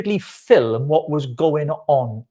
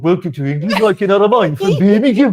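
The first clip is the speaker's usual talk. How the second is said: hammed-up Birmingham accent, louder; Brummie accent; 4 semitones higher, 5 dB louder than usual. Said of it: "Do it in a Brummie accent".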